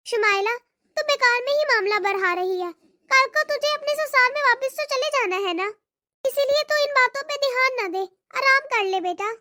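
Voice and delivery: put-on old mother. Mother soothing her daughter.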